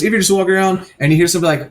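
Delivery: ordinary talk, nothing marked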